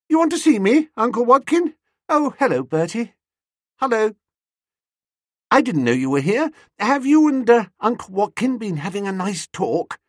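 put-on high, lilting, cheery young niece; merry and bright. A narrator's reading. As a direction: greet them brightly in a high, girlish voice. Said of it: "She tripped in, all merry and bright".

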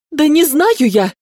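high, drawn-out exasperated outburst; breaking into a cry. A narrator's reading. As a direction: snap and cry out in frustration. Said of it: "сорвалась на крик ведьма".

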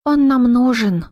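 lightly voiced young woman; character voice. A narrator's reading. Daria's character voice, slow.

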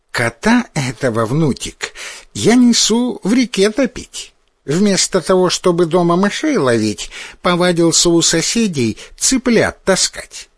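put-on mumbling old woman with no teeth; toothless mumble. A narrator's reading. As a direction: gum the words like a toothless granny. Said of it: "прошамкала в ответ старуха".

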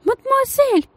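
very high calling cry; lady crying out after the girl, very high; thin desperate cry. A narrator's reading. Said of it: "тонкий отчаянный крик".

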